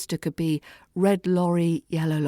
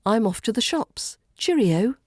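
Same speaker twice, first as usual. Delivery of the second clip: higher, bouncy sign-off; bright and bouncy; 4 semitones higher than usual. Shown as a demonstration. Teacher acts out leaving for the shops, bright and bouncy. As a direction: bounce out a cheery goodbye, lifting at the end. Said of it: "It's bright and bouncy".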